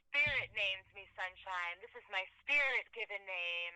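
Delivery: slow serene hippie voice; dreamy hippie voice. Retold or imitated. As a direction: sound blissed-out and serene. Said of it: "and they go".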